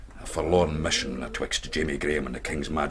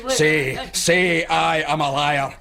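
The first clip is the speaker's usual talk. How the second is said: commanding shout; 9 semitones higher, 4 dB louder than usual. Acted. Stranger loudly ordering the pricker to confess, commanding. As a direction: force the confession out of him.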